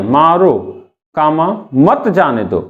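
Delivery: "मारो", pause, "कामा", then "मत जाने दो" together; comma after मारो. Shown as a demonstration. Teacher shows same words, comma after "मारो". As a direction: set "मारो" apart from "मत जाने दो". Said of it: "शब्द वही है".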